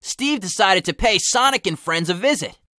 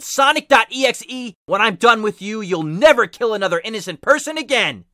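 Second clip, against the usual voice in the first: mild yell; 3 semitones higher than usual. Acted.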